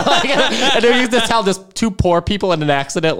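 laughing through the words, high; can barely talk for laughing. Real, not acted. Laughing while telling story.

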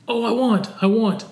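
put-on whiny kid. Parent imitates whining child.

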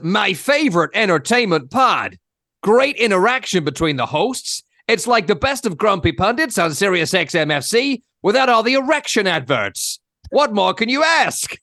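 lightly put-on American accent, reading a listener review; mock American accent. Host reads an American listener's review in a light American accent. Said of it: "I'll do the accent".

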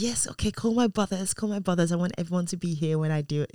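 lightly imitated eager child, starting high; excited child. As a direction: blurt it out like an excited boy. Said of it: "he got so excited".

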